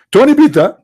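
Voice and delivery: high, hammed-up Italian accent on Tony Pizza; mock Italian. Mocking a made-up Italian scientist in mock Italian accent. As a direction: sing out the name like a cartoon Italian.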